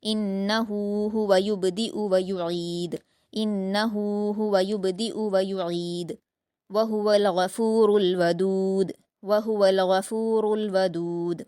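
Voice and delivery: slow, melodic Quran recitation; tajweed recitation. Shown as a demonstration. Teacher reciting the verse for the student. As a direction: chant the verse with elongation.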